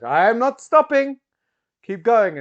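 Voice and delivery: high, loud giggling protest; high-pitched delighted plea; laughing hypnotized woman. Acted. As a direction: gasp it out through laughter. Claire laughing, speaking to Bowman.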